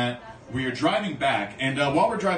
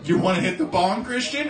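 teasing friends; 5 semitones higher than usual. Retold or imitated. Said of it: "they're gonna be like".

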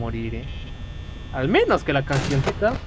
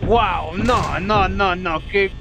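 higher, louder panicked no's; alarmed protest; 5 semitones higher, 4 dB louder, much slower than usual. Real, not acted. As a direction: protest the hit. Hit hard by enemy.

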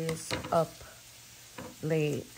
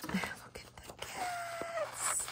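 breathy, adoring whisper at a cute picture; cooing whisper; 7 dB quieter, much slower than usual. Real, not acted. Gushing to viewers over cat image, whispered. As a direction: melt over the cats in a soft whisper.

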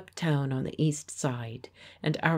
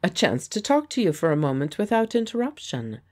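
pleasantly; 4 semitones higher, 5 dB louder, faster than usual. Acted. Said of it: "said Geoffrey pleasantly".

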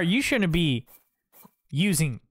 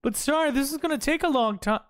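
mock underling voice; 7 semitones higher, faster than usual. Voicing a game underling.

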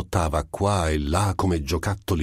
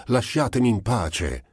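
higher raised cry; shouted; 6 semitones higher than usual. Acted. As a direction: beg to be left alone, forcefully.

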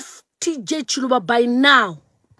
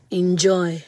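unvoiced mocking whisper; whispered sneer; 7 semitones lower, 5 dB quieter than usual. Taunting the former president's daughter in a whisper. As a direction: hiss it like a taunt.

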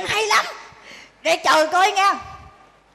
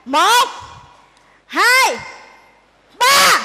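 building count; 3 semitones higher, 4 dB louder, much slower than usual. Acted. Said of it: "Tao đếm lại nè".

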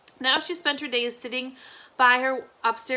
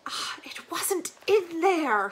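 put-on slow, high, sorrowful old woman; sad old granny; 6 semitones higher, slower than usual. Granny giving up the search, sadly. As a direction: let the hope drain out. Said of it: "she said sadly".

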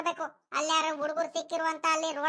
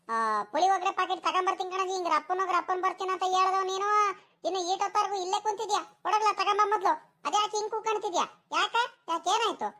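pressing questions in a raised pitch; rapid-fire scolding; 3 semitones higher than usual. Acted. Grandma scolds grandson for still sitting here, rapid-fire. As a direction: fire questions at the dawdling boy. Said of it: "ಹಿಂಗ್ speed ಆಗಿ ಮಾತಾಡ್ತೀಯ".

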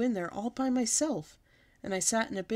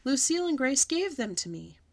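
hollering protest; 8 semitones higher, 6 dB louder than usual. A narrator's reading. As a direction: protest hard to the teacher. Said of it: "I hollered".

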